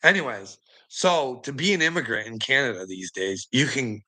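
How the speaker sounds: ordinary delivery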